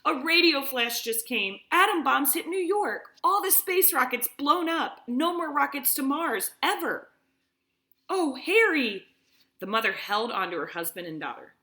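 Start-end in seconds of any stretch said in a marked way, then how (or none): 0.0-7.1 put-on high, loud, distraught young daughter; crying girl's news. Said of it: "stumbled through the settlement crying". 8.1-9.1 high, loud, slow gasp of a shocked wife; wife clutching her husband in shock; dismayed mother. Acted. Mother hears of the war.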